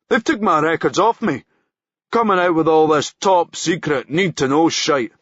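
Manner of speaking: aggrieved grumbling. Acted. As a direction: moan about orders. Policeman complaining to driver.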